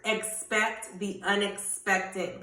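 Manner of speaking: Expect the unexpected spoken slowly, each word weighed; a slow, firm motto; slow emphatic declaration. Shown as a demonstration. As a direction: lean on "Expect", slow and deliberate. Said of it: "What are you gonna speak over your life".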